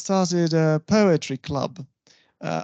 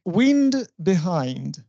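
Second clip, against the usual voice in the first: slow example; much slower than usual. Shown as a demonstration. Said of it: "we sometimes come across this type of rhyme".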